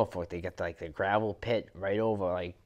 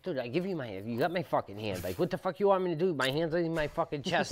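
higher, outraged retort to the cops; pinned-down man protesting to arresting cops, outraged and pitched up; exasperated protest; 7 semitones higher, faster than usual. Retold or imitated.

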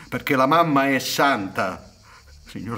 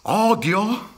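incredulous echo; 8 semitones higher, slower than usual. Acted. Son repeats the accusation.

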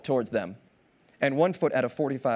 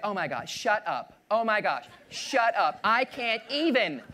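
lightly voiced gushing girl, rising higher; a hint of a girl squealing to her friend; pretty girl at the bar; 5 semitones higher, slower than usual. Pretty girl gushing to her friend, lightly voiced and rising. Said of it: "I will play the role of pretty girl today".

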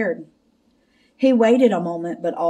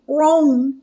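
higher cartoon dog counting; talking dog saying "one"; Scooby-Doo; 6 semitones higher, 3 dB louder than usual. A narrator's reading. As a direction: count aloud in doggy speech. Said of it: "he counted".

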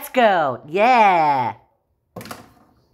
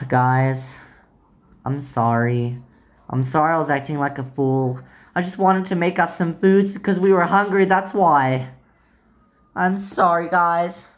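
low apologetic voice; 5 semitones lower than usual. Pretend. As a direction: lower doll voice, apologetic. Kaya apologises in her voice.

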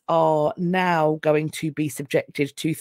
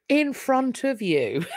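giggling through the words; amused laughing echo; laughing repeat; 6 semitones higher, slower than usual. Real, not acted. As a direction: laugh as you say it.

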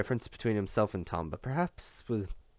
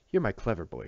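fond. Acted. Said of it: "she said fondly".

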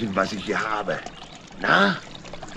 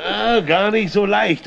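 laughing; 11 semitones higher, 4 dB louder than usual. Acted. Laughs while hauling the pram.

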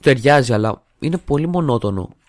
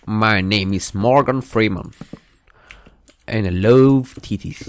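slow, lightly voiced Morgan Freeman impression; a hint of the famous narrator, drawn out slowly; 4 dB louder, slower than usual. Youtuber jokes to viewers in slow mock Morgan Freeman voice. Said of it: "το κόλπο του Morgan Freeman".

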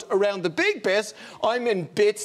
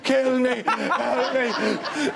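mock desperate plea; 2 semitones higher, much slower than usual. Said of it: "I'm beside her going".

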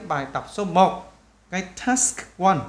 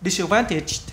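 quick, run-together word; fast natural saying. Shown as a demonstration. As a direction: say it briskly in one go. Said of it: "khi người ta nói nhanh là cái bài". (nói nhanh liền một mạch)

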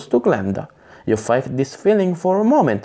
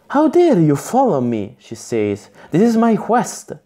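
higher and louder, indignant rebuke; 7 semitones higher, 3 dB louder than usual. Acted. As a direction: scold him, hands on hips. Glenda indignantly confronts the boy.

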